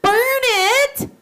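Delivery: high, loud exclamation; teacher answering her own question; emphatic answer. Shown as a demonstration. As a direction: burst out the answer for the children. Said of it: "What would that do to your hand?".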